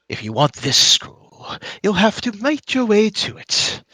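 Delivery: lightly voiced showman wizard; a touch of theatrical relish; sly mad mage. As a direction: tempt them like an eccentric game host. Game master voices scheming mage.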